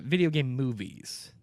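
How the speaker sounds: each word laid down slowly; slow emphatic rephrase. Shown as a demonstration. Correcting his co-host, slow and deliberate. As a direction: spell it out deliberately. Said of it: "rephrase that".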